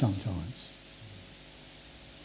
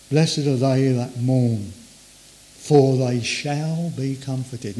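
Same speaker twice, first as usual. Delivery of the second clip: slow scripture reading; 3 semitones lower, slower than usual. Shown as a demonstration. Scripture read slowly.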